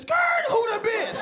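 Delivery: mock skidding biker; biker braking. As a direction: brake the bike and call out. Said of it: "One dude was riding a bike".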